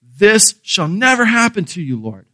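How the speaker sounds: lightly voiced indignant Peter; mild rebuke. Preacher voicing Peter scolding Jesus, mild indignation. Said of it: "has the gall to rebuke Jesus".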